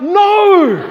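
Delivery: high, loud laughing refusal. Retold or imitated. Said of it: "I'm like".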